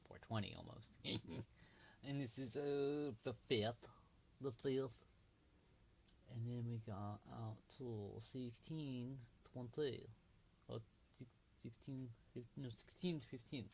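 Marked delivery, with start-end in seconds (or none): 2.1-13.7 playful put-on Russian accent; slow down into a mock Russian accent. Reading out chart times to viewers, light Russian accent. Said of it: "I do, like, a Russian accent".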